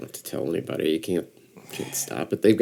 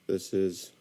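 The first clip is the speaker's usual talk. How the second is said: measured radio announcer, even and unhurried; 4 dB quieter than usual. Shown as a demonstration. Podcaster demonstrating the voice he wants to develop, radio voice. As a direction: try out an understated radio voice. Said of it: "I wanna develop a radio voice".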